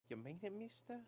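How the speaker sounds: put-on awed kid voice. Rufus awed by gift of hat.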